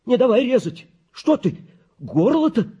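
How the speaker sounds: granny's shrill-free high, loud pleading; old woman's high pleading. A narrator's reading. Old granny begs the doctor not to cut, high and loud. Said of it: "А бабка снова забубнила".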